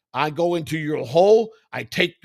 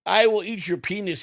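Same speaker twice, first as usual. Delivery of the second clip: mock Indian accent; 4 semitones higher than usual. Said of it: "You went to a wannabe Indian voice".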